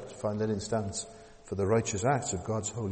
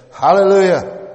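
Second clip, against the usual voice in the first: loud high cry of praise; shouted hallelujah; 8 semitones higher, 17 dB louder than usual. Acted. Preacher voicing the multitude shouting in heaven, loud. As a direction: lift it up like the crowd in heaven. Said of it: "again they shouted".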